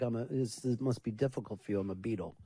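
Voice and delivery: a hint of a smug rock star, quiet; condescending Beatle. Mimicking a musician to the hosts, lightly condescending and soft. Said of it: "he acts like".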